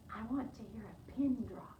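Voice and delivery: soft, quiet voice; hushed request. Acted. Missus Page asks the children for quiet, softly. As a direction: say it softly to hush the room.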